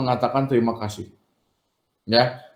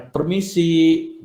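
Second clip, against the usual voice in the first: a drawn-out, lightly raised "Permisi"; slow polite knock greeting; 3 semitones higher, much slower than usual. Shown as a demonstration. Teacher showing how to greet when visiting, slow and polite. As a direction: stretch out "Permisi" at the door. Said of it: "Nah, ya".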